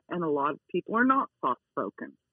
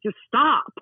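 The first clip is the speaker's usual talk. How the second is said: higher, louder order to stop; firm correction; 6 semitones higher, 5 dB louder than usual. Shown as a demonstration. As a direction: put your foot down with the dog. Demonstrates correcting the dog.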